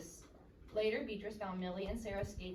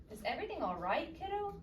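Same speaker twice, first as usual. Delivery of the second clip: caring father; 7 semitones higher than usual. A narrator's reading. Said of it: "asked her father".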